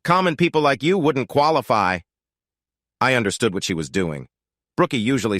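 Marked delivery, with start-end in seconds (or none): 0.1-2.0 put-on high, haughty posh English accent; snooty upper-class English voice. A narrator's reading. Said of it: "said in a posh voice".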